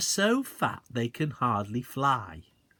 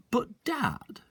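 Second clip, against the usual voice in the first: whisper; 12 semitones higher than usual. A narrator's reading.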